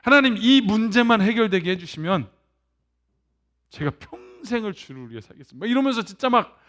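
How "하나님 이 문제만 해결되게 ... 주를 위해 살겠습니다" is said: earnest plea. Retold or imitated. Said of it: "간절하게 구하지 않을까요".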